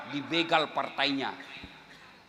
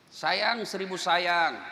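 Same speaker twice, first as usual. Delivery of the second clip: slow lament; 4 semitones higher, much slower than usual. Real, not acted. Lamenting refrain.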